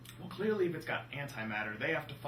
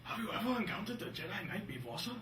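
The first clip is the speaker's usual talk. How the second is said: higher-pitched put-on Neimoidian accent; 5 semitones higher, 4 dB quieter than usual. Alien asking sir about a Jedi, Neimoidian accent. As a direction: do a cheesy Neimoidian from Star Wars. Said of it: "sounded more like an Nemodian".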